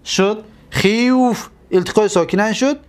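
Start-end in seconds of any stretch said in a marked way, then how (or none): 0.7-1.5 خیوف stretched out slowly, syllable by syllable; slow demo word. Shown as a demonstration. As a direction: draw out خیوف slowly like a teacher showing it. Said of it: "ایرا گرفتیم و واو حرکتش در ما قبل دادیم".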